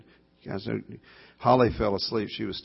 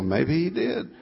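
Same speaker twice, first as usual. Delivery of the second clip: said through a laugh, higher; 8 semitones higher, 4 dB louder, slower than usual. Retold or imitated. Young dad to daughter, answering while laughing. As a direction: laugh as you say it.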